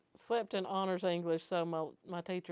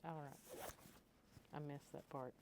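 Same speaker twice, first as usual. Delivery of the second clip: sleepy, mid-yawn voice; 3 semitones lower, 16 dB quieter than usual. Real, not acted. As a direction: talk through a yawn. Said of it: "I was yawning".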